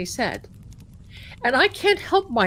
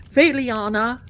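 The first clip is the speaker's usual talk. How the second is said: intense partner; 4 dB louder than usual. Retold or imitated. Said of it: "he's very intense".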